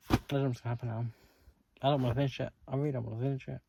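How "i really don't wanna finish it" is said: normal talking voice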